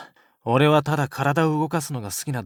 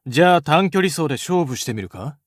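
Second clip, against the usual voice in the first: challenging; 4 semitones higher, 6 dB louder than usual. Acted. Accepting a challenge.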